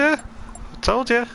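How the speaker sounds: drawn-out sing-song tease. Acted. Repeated tease, drawn out slowly.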